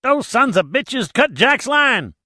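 high, loud, slow panicked cry; barely holding back hysteria; near hysteria. Acted. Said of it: "near hysteria".

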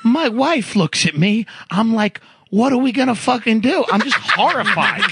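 imitating an Italian-American Long Island guy; mock Long Island Italian accent, telling a coworker's story. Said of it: "he talked like this, Italian guy".

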